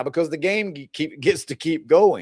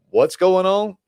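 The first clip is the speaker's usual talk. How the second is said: slow, higher-pitched mock confusion; bewildered; 5 semitones higher, 4 dB louder, slower than usual. Dumped dude to departing partner, bewildered. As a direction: draw it out like a baffled dude. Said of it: "And they're lost".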